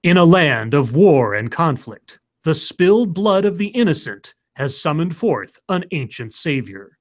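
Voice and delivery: dramatic trailer narrator; movie trailer voice. Acted. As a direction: epic in-a-world announcer read. Reads a fake movie trailer.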